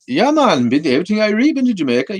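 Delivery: light, high Jamaican accent attempt; lightly voiced Jamaican accent. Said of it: "can you do a Jamaican accent?".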